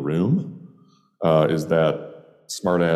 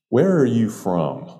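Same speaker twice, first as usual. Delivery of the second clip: higher start, falling straight to the end; point-blank question; 6 semitones higher than usual. Retold or imitated. Bartender questioning an unfamiliar customer, point blank. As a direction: ask it bluntly, as a direct challenge. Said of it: "she asked me point blank".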